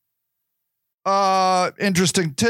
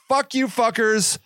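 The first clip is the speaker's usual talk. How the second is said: pissed-off rant; 6 semitones higher, slower than usual. Retold or imitated. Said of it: "I'm like".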